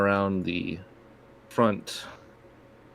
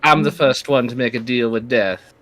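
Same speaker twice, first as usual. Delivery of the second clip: villain voice; 3 semitones higher, 7 dB louder than usual. Acted. GM voices the lich Barnaby.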